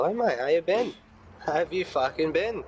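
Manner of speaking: high, sneering "Hi, mate"; cheeky greeting. Acted. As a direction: greet him with mock cheer. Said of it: "I hit him with the".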